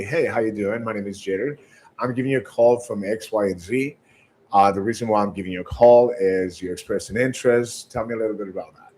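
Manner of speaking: measured, low-key phone introduction; calm, paced. Shown as a demonstration. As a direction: pace yourself calmly, like an unhurried sales call. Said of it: "very calm, and I paced myself".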